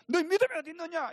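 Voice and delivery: high, loud, fast rebuke; mock scolding. Shown as a demonstration. Preacher showing how the Lord does not speak, scolding. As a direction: scold sharply, as a demonstration. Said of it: "야단을 치면서".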